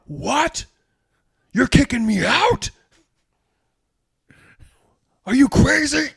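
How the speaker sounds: high, loud, indignant yelling; outraged shout. Acted. Fired cook yelling at his boss, high and loud. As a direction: bellow in disbelief at being fired.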